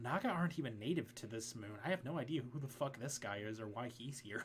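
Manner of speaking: soft, half-whispered aside. Voicing a character who speaks to the players from behind: half-whispering. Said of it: "Lexi kinda, like, whispers to you guys".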